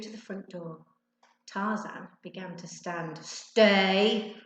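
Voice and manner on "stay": one sharp, loud order; commanding. A narrator's reading. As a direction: bark the single word at the dog. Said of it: "commanded Ben".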